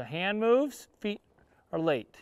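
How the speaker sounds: "feet" said after a gap, "are late" dragging behind; late timing demo. Shown as a demonstration. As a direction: feet lag after the hand. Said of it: "a little late with the timing".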